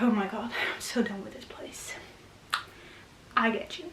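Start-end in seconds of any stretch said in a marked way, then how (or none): 0.0-1.9 hushed, exasperated sigh of a voice; breathy, worn-out mock complaint; frustrated. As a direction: act out being fed up, almost whispered. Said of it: "annoying or frustrated".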